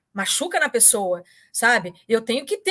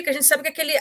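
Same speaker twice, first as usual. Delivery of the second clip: usual speaking voice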